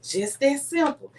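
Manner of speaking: slow, settled reply as the husband; retold calm answer. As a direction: state it slowly, as a simple fact. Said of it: "He said".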